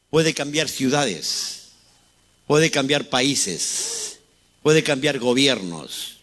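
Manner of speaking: very slow, weighing each puede; slow emphatic preaching. Real, not acted. Pastor hammering home the power, very slow and weighty. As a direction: drag out every line to let it land.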